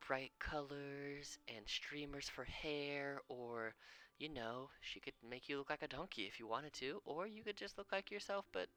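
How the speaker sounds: put-on eager kid voice. GM voicing Xylerin pitching ideas.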